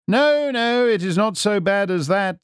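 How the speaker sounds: high, lightly amused detective voice; airy, genial brush-off; smiling reassurance. A narrator's reading. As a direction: soothe with a smile in the voice.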